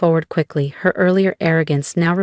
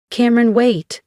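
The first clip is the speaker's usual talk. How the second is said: higher, urgent call to stop; urgent plea; 7 semitones higher than usual. A narrator's reading. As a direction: call after a daughter who is leaving. Mother calls after departing daughter.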